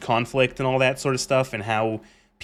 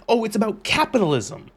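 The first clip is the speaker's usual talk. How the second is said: a hint of dopey fan voice; mocking the morons; 8 semitones higher than usual. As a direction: parody the fans lightly. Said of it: "these fucking morons go".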